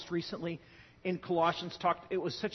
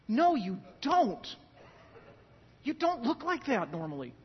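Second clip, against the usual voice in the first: firm denial; 5 semitones higher, 3 dB louder than usual. Acted. Rebutting mourners at open casket.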